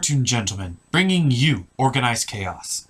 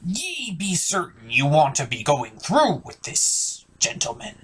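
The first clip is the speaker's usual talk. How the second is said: pirate voice; 4 dB quieter than usual. Acted. Pirate character questions host.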